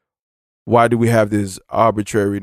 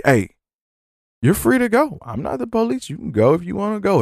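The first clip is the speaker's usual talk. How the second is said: mock cop voice; 9 semitones higher than usual. Cop lets him go, mock.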